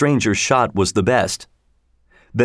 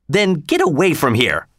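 mild angry cry; 4 semitones higher than usual. Acted. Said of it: "cried the sheriff, voice shook with anger".

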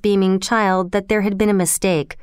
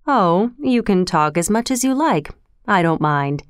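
gently. Acted. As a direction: ease her worry kindly. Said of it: "he said gently".

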